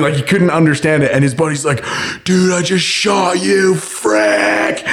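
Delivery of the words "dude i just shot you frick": high, slow, drawn-out mock panic; imitated panic. Imitating a buddy who accidentally shot his friend, panicked. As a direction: act out a horrified confession, voice pitched up.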